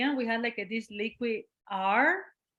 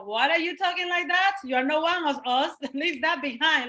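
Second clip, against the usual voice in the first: pitched-up teasing reproach with a laugh; mocking rejection; 5 semitones higher than usual. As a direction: imitate the locals mocking her. Retold islanders rejecting her.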